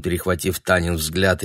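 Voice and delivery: ordinary delivery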